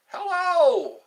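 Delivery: high, loud sing-song hello; big, bright welcome call; loud greeting. Real, not acted. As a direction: call it out to a returning viewer. Greeting a returning viewer.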